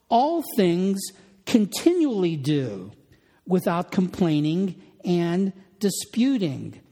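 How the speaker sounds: slow, weighty, All lifted and stressed; emphatic rendering. Shown as a demonstration. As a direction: spell out each phrase with pauses. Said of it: "a very fair translation".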